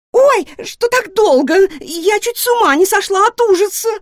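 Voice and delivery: high, loud lamenting squeal; wailing guinea pig. A narrator's reading. Guinea pig wailing at Nora and Tikhon. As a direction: wail it out like a frightened little pig. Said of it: "запричитала Марыся".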